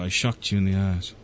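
low, put-on Australian accent that comes out British; mock Australian accent. Host copying the co-host's Australian accent. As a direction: tries to copy her Australian accent. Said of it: "I love that accent".

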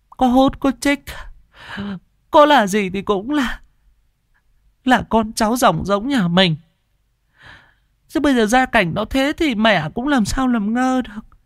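put-on high old woman's voice, tearful and pleading; an old mother in tears defending her addict son. A narrator's reading. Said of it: "nước mắt ngắn dài lã chã".

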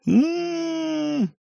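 high, hushed moan of delight; dreamy mmm. A narrator's reading. Nyukhach recalling chocolate, dreamy moan of delight. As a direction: savour a remembered taste. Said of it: "Нюхач облизнулся".

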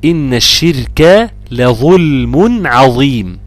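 measured, drawn-out tajweed recitation; slow Quranic recitation. Shown as a demonstration. Tajweed teacher models a verse for a student, slow recitation. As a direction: recite slowly with long, careful syllables.

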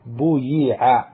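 بويع drawn out as bu-yi-ʕa; slow demo. Shown as a demonstration. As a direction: spell out بويع syllable by syllable, very slowly. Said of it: "نضم أوله ونكسر ما قبل آخره".

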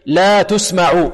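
slow recitation of تسمع as tusma'u, all letters thin; light letters. Shown as a demonstration. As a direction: draw out لا and keep تسمع light. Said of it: "إذن هنا كلها مرقة".

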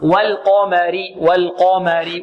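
والقمر slow, heavy q between light l and m; drawn-out والقمر, full qaf. Shown as a demonstration. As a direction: thicken only the ق in والقمر. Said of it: "وعند القاف هنا مفخمة".

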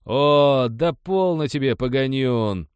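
interjecting. A narrator's reading. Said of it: "встрял".

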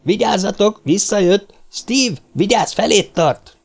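high, urgent cries; alarmed high shout to the others; shouted warning. A narrator's reading. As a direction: call out the alarm, pitched high. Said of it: "harsant Cartwright kiáltása".

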